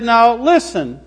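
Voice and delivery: lightly voiced God, emphatic warning; God commanding. God giving the second commandment, lightly acted command. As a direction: lay down the rule firmly to the people. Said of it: "God said".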